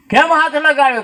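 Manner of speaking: the guru scolds his disciple sharply; angry guru. Retold or imitated.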